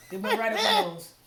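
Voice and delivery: laughing loudly mid-sentence. Real, not acted. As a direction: burst out laughing. Spice shot up her nose.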